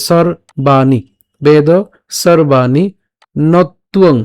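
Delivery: "সর্বাণী" as sor-baa-ni, r before the b; slow, split "সর্বাণী" with long "baa"; r sounded first. Shown as a demonstration. Teacher models the verse words, measured syllable-by-syllable demo. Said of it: "আগে উচ্চারণ হচ্ছে".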